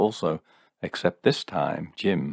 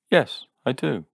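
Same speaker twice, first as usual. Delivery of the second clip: defiant; 7 semitones higher than usual. A narrator's reading. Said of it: "she said defiantly".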